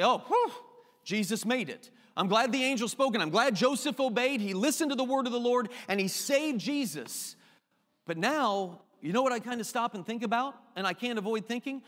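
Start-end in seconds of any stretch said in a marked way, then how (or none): 0.0-7.4 mock relief. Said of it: "I sit here and say".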